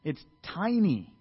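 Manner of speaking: low, soft, slow and dismissive; unimpressed old-timers. Retold or imitated. Old men sneering at the new temple, dismissive. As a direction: mutter it like a let-down elder. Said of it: "and they're like".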